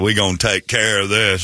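lawyer's folksy Southern promise; lightly put-on country lawyer accent; mock Southern accent. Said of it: "That accent isn't gonna save the black guy".

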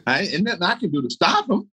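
incredulous. Retold or imitated. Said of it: "I like".

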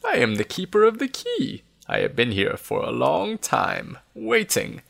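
put-on high-pitched, faltering old keeper; halting, as though unused to speaking; old man voice lifting high; Nesbit. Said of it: "in a faltering voice".

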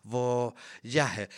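slow, drawn-out showbiz presentation; drag queen announcement. Pretend. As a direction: announce her like a drag diva on stage. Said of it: "suena como una drag queen". (presentación lenta de drag queen)

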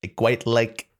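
lightly voiced presidential impression; halting politician voice, in short bursts; Donald Trump. Fish audition gone political, light Trump impression. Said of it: "sounding a lot like Donald Trump".

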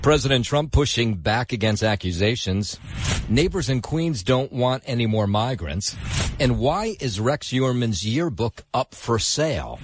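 crisp anchor headline delivery; news headline read. Acted. Anchor reads the top five stories to listeners. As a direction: punch through each headline like an anchor.

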